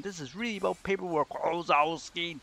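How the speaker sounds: Roz voice. Acted. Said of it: "the best Roz voice".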